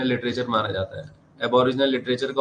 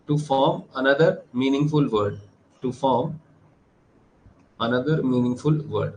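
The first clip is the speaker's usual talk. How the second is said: measured, word-by-word dictation; slow dictation; much slower than usual. Real, not acted. Teacher reading out an anagram definition to students, slow dictation. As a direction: dictate slowly with pauses between phrases.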